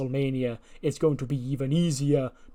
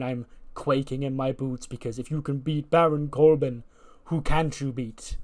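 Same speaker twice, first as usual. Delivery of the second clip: mock awe. Wrestler taunting Daniel Bryan over his win, mockingly. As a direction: pretend to be impressed, drawing out the key words. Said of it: "I'm, of course, joking".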